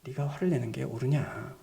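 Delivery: low, softened, mild question; gentle divine question. Retold or imitated. God gently questioning an angry Jonah, mild and low. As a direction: ask it gently, pitched well down. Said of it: "유순하게 말아주십니다".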